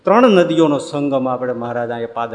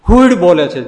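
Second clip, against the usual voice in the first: rain sound word; 5 semitones higher, 10 dB louder than usual. Shown as a demonstration. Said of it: "દેશી ભાષામાં કે ને".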